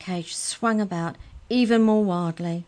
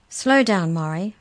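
protesting; 8 dB louder than usual. A narrator's reading. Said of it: "protested Molly".

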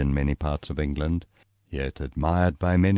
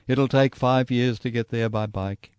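higher, bursting out with it; blurted out; 7 semitones higher than usual. Retold or imitated. Roland blurting out his gloomy prediction to the cyclists. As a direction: blurt the warning out all at once. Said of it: "he blurts out".

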